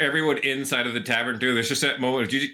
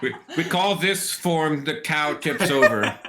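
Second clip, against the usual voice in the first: laughing; 3 semitones higher, slower than usual. Real, not acted. Joke said while laughing.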